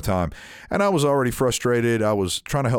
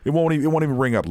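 higher, rushed old man imitation; 6 semitones higher, much faster than usual. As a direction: hurriedly protest as a lightly voiced old cashier. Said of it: "that's the old man voice".

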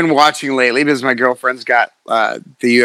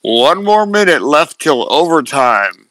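slow, announcer-style call over a PA; loudspeaker announcement; slower than usual. Retold or imitated. Imitating the loudspeaker announcer calling time. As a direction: read it like a rodeo PA announcer. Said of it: "you hear over the loudspeaker".

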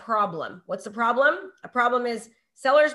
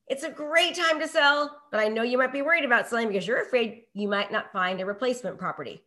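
empathetic demo. Shown as a demonstration. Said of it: "So it looks like this".

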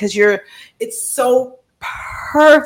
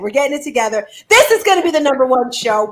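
usual speaking voice

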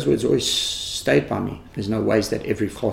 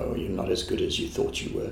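deflated self-talk; 2 semitones lower, 8 dB quieter than usual. Retold or imitated. Teacher mocks own deflated self-talk.

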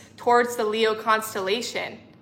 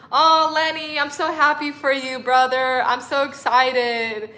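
excited delight; 3 semitones higher than usual. Real, not acted. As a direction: burst out happy for a friend. Reacting to a viewer's happy news.

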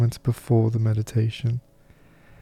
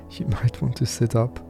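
soft chuckle breaking into a calm meditation voice; quietly amused; real light laugh; 4 dB quieter than usual. Real, not acted. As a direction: let a small laugh slip out, then carry on gently. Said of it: "it's okay to laugh".

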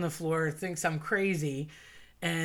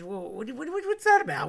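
retold bafflement; 7 semitones higher, 3 dB louder than usual. Friend baffled by salt story.

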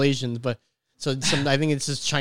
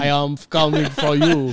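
heavy Russian villain voice; hammy Russian accent; mock Russian accent; 4 dB louder than usual. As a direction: threaten in a fake Russian accent. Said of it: "I'm Russian now".

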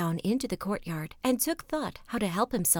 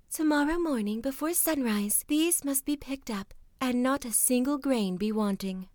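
proud princess; 4 semitones higher than usual. Acted. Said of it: "the proud princess".

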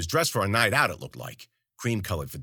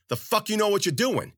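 high-pitched irritated rant; angry scolding; 11 semitones higher than usual. A narrator's reading. Zoot chewing out his goon, angry. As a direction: chew out an underling. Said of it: "He chewed the guy's ear off".

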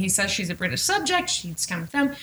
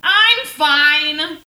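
louder, forced I'm fine; insistent I'm fine; 4 semitones higher, 5 dB louder than usual. Retold or imitated. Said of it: "that is also how the episode starts".

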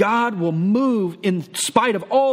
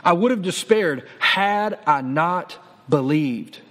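slow emphasis; slower than usual. Shown as a demonstration. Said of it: "There's that word".

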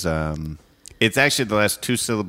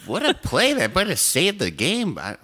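high, giggling sportscaster bit; sportscaster voice dissolving into giggles; laughing mock commentator; 8 semitones higher than usual. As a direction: commentate a play while cracking up.

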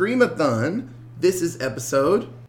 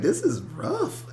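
high, slow mock wince; 13 semitones higher, 5 dB quieter, slower than usual. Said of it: "I was like".

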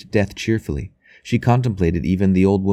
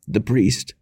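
moaning; 4 semitones higher than usual. A narrator's reading. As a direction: call faintly for the priest.

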